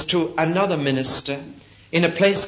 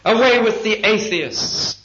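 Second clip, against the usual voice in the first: higher, louder, slow mock crowd shout; crowd cry; 7 semitones higher, 4 dB louder than usual. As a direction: call it out like a baying crowd, drawn out. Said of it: "then somebody cried".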